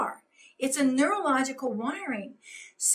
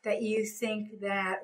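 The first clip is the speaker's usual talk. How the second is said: calm slow one-liner; 2 semitones lower, 4 dB quieter than usual. Shown as a demonstration. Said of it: "one of my best one-liners is".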